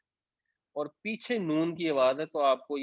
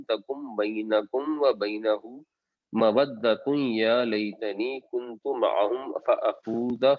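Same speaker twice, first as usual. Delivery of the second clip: measured, chanted Arabic recitation; Quran recitation. Acted. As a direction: recite the verse in tajweed style.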